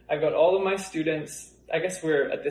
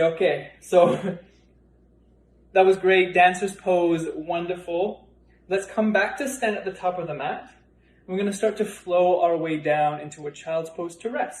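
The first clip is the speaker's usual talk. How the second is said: yoga teacher cueing. Shown as a demonstration. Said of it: "And then I might say".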